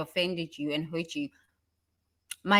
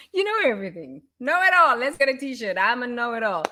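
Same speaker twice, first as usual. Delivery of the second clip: mocking taunt; 5 semitones higher than usual. Mocking a know-it-all.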